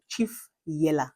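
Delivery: slow, drawn-out "Chief Yeller"; slow emphatic repeat. Shown as a demonstration. Vlogger repeating "Chief Yeller" slowly for effect. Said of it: "my mom was Chief Yeller".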